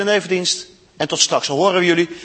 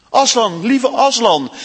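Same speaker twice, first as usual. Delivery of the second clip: higher, louder anxious call; 5 semitones higher, 5 dB louder, slower than usual. Acted. Lucy calls out to the sick Aslan, worried. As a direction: call his name in worry. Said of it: "riep Lucy".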